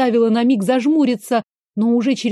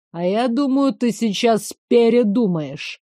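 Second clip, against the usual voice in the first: ordinary delivery, nothing marked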